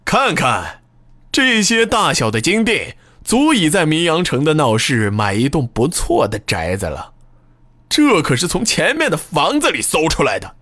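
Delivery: high, triumphant taunting; smug proclaiming. Acted. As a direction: gloat to the crowd. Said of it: "得意洋洋地对众人叫喊道".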